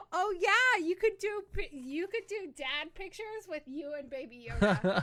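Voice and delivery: gasp, then loud, high delight; real excitement. Real, not acted. Co-host seizing on Baby Yoda picture idea, real excitement. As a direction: burst out thrilled, easing into laughter.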